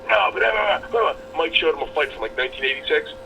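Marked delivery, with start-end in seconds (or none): 0.1-1.1 put-on high, loud stammering kid; mock stammering teen; flustered kid. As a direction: stumble for an answer like a caught teen.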